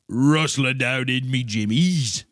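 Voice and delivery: loud, high, slow Scottish put-on; exaggerated mock Scottish accent. Complaining about skirts, loud hammed-up Scottish accent. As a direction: belt it slowly as a comic Scot.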